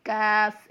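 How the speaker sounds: "कैफ" with a light front k and thin vowel; thin kaf. Shown as a demonstration. Teacher shows the thin letter, "कैफ" said lightly and held. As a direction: keep "कैफ" thin, never rounded. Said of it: "इसको बारीक पढ़ा जाता है".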